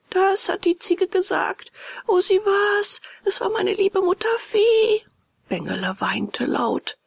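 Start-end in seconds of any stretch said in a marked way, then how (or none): 0.1-5.0 put-on high, agitated boy's cry; stirred, high-pitched outcry; anguished recognition. A narrator's reading. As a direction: exclaim it with pitch rising high. Boy realises goat was mother fairy.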